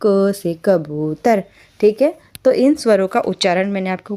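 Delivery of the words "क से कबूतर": क said as a short ka, slowly and clearly; correct short ka. Shown as a demonstration. Teacher repeating the correct short क to students. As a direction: give क a brief a, not kai or kaa. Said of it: "ना वो कै है ना वो क है".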